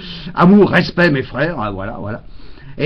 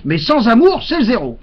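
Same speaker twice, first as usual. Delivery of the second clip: shouted; 6 semitones higher than usual. Retold or imitated. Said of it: "j'ai crié".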